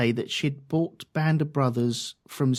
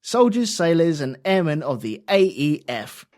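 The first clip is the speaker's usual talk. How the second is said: formal speech reading. Acted. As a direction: read it like a general's proclamation. Reads Eisenhower's D-Day message aloud.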